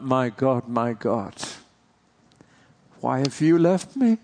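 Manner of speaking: a rising anguished cry, voice thinning toward the end. Retold or imitated. Preacher voicing Jesus on the cross, anguished cry. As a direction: plead upward to an absent God, a touch strained.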